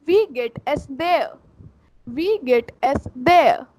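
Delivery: Wie geht es there said slowly as vee gayt es dee-a; German pronunciation demo. Shown as a demonstration. Teacher showing the informal greeting, slow demo. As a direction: break it up slowly. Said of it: "The informal way is".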